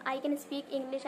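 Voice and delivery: slow and careful, I can speak English; correct example. Shown as a demonstration. Teacher gives students the correct sentence slowly. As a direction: lay out the right sentence word by word. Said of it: "ये sentence correct नहीं होता".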